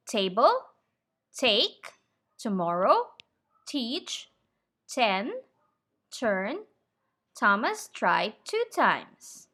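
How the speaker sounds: table, take, tomorrow, teach, ten, turn, each with a strong, clear T. Shown as a demonstration. Teacher demoing the strong, clear T at the start of words. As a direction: hit every first T crisply. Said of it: "it is a strong, clear T sound".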